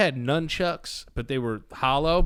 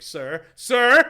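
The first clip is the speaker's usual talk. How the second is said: much higher, much louder frightened plea; panicked calling; 9 semitones higher, 9 dB louder than usual. Retold or imitated. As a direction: plead in mock terror. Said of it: "I'm like".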